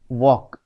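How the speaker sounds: walk said as "wawk", without L; silent L. Shown as a demonstration. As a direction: say walk, leaving the L unsounded. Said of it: "because L is silent". (walk में L silent)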